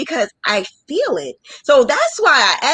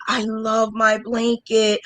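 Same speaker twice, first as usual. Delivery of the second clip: mock teary delight; slower than usual. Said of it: "You want somebody to say".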